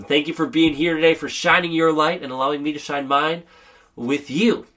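speaking with a cold; sick voice. Real, not acted. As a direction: voice worn by illness. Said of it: "even with my sick voice".

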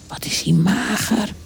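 soft, hushed remark; whispering. A narrator's reading. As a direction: whisper it to a companion. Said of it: "fluisterde de eekhoorn". (gedempt fluisteren)

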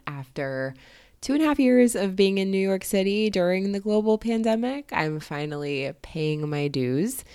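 hoarse, muffled from being sick. Real, not acted. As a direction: talk through a sore, stuffy throat. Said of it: "I sound a little hoarse or muffled".

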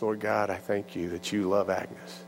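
low, slow, hushed prayer; praying. Acted. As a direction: pray gently and unhurriedly. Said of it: "Can I pray?".

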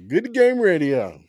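loud, high, stretched-out show slogan; shouted sign-off. Real, not acted. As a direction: holler the show name slowly. Calling out show's sign-off.

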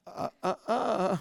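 slow, drawn-out "uh, uh, uh"; chiding uh-uh. Acted. Pastor correcting a know-it-all churchgoer, chiding uh-uh. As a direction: teasingly stop them with a slow uh-uh.

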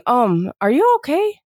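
gentle, hesitant check-in; tentative concern. Shown as a demonstration. Bystander to someone seen crying, tentative concern. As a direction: ask carefully, drawing it out a little. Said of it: "you see someone crying".

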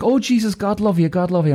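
high-pitched sympathetic receptionist; high, cooing mock sympathy. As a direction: imitate a woman fussing in pity. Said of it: "And she's like".

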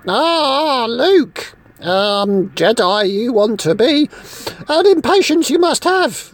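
a lightly put-on Yoda, words back to front; mock Yoda voice. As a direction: parrot the little Jedi master, half-mocking. Yoda quoted back by Luke.

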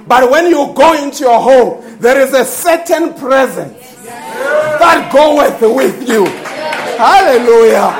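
emphatic, driving sermon delivery; full-force preaching. Acted. Preacher rousing the church about delegated authority, emphatic preaching. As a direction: preach it out to the whole congregation.

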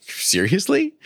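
to herself, in disbelief; incredulous Sarah. Retold or imitated. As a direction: question it as if it can't be true. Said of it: "she laughs to herself and is like".

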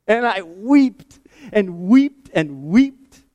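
slow, high, tearful retelling of weeping; wept. Retold or imitated. Preacher recalling how he wept at church, slow and tearful. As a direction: relive the weeping, slow and rising.

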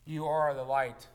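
slow solemn quote. Retold or imitated. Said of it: "begins the sermon with".

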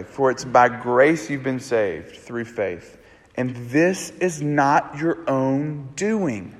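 slow, weighty reading of the verse; reverent, measured quote; slow scripture reading. Shown as a demonstration. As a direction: let each word of the verse land slowly. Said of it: "describes it this way".

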